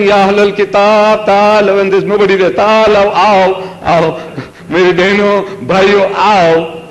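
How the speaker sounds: hammed-up summons to listeners who aren't there; calling to an empty hall. Lone speaker calling out to an empty hall, mock summons. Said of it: "hear me talking like that".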